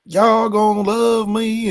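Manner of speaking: mock Southern accent. Host mocking coach's lost accent, imitated Southern drawl. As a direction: stretch it out in a put-on Southern accent. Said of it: "You sound real Midwestern. Where is that".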